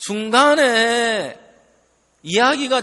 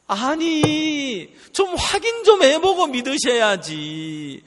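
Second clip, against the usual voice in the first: acted reproach; 2 semitones higher than usual. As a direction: scold them for judging without checking. Acted reproach for hasty judgement.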